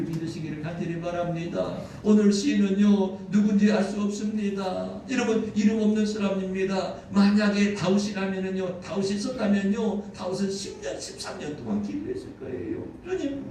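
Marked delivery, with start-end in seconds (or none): 2.0-12.8 loud, raised-pitch sermon delivery; impassioned preaching. Acted. Preaches at full force. 13.0-13.4 high, loud cry to the Lord; imitated pleading prayer. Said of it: "눈물로 기도했을 것입니다".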